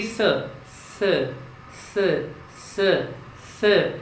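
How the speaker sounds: स as a clean hiss, tongue kept inside; correct s demo. Shown as a demonstration. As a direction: repeat स cleanly with the tongue behind the teeth. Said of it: "जीभ अंदर है". (जीभ अंदर रखकर साफ़ स)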